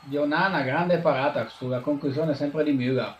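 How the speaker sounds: lively Italian football commentary; play-by-play commentary. Acted. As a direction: call the match live. Mock live match commentary.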